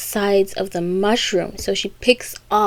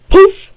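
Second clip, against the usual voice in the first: imitated poof; 10 semitones higher, 12 dB louder than usual. Imitates cat popping into existence.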